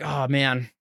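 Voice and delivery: subdued, let-down boss with a long pause; disappointed. Retold or imitated. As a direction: sigh into it and give in reluctantly. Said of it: "they were, like, disappointed in me".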